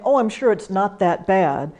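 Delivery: breezy brush-off of "bad"; dismissive reassurance. Shown as a demonstration. Volunteer minimizing a caller's news, breezy. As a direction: wave the worry away. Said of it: "Rather than saying".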